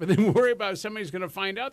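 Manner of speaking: fast, laughing through it; rushed and amused. Real, not acted.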